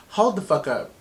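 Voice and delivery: mildly startled retold reaction. Woman retelling her first look at the map, mildly startled.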